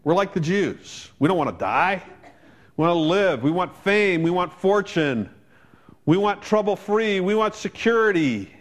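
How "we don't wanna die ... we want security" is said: building preaching. Real, not acted.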